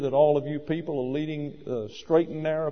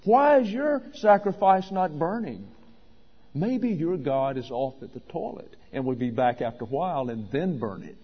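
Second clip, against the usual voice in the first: Elijah. Acted. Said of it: "he's mocking them".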